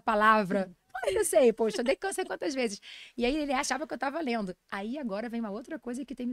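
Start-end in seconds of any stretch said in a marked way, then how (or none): 0.9-2.8 loud, high-pitched protest; indignant retort. Acted. Nutritionist protesting at doubt over her knowledge, indignant. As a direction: insist you know it, affronted.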